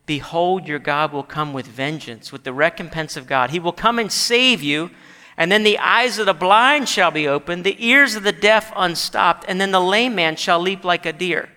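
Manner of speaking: rising, forceful scripture quotation; scripture reading. Acted. Preacher quoting God's promise to the congregation, rising scripture reading. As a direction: build the promise from measured to emphatic.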